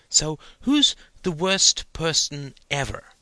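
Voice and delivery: put-on a curious six-year-old pressing his dad; eager little boy. A narrator's reading. Child Stephen asks eagerly.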